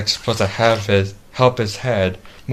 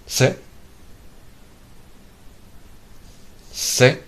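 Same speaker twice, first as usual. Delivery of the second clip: firm raised command to a pet; 9 semitones higher, 9 dB quieter, much slower than usual. Real, not acted. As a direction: call the command out, higher each time. Giving commands to robot dog.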